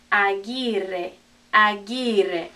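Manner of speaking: Aguirre as "ah-GEE-reh"; hard G, silent u in Aguirre; Spanish pronunciation. Shown as a demonstration. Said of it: "Remember, this is Gui".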